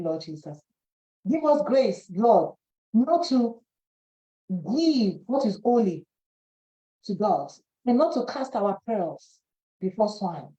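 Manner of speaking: earnest prayer, calling on the Lord. Acted. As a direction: pray it over the congregation, steady and devout.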